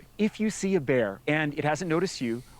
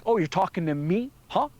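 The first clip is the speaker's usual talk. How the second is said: provoked bear; 5 semitones higher than usual. Acted. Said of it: "some bears will be like".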